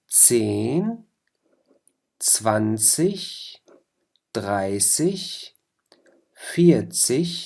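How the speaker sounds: each ten from زين to هوندات said singly, rising, slowly; German tens review. Shown as a demonstration. Teacher repeats the German tens so students can check. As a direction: drill the tens with a rise, pausing between. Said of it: "منعيد لفظة ... مشان تدققوا معي".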